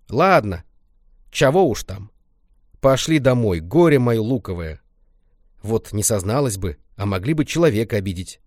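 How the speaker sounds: granny forgiving. Acted. Grandma forgives Lenka, relenting granny voice.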